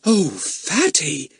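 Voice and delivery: slow, high, drawn-out oh; dismayed girl. A narrator's reading. Daisy watches Fatty through the window, dismayed and slow. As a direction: sigh it out as a girl. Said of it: "said Daisy".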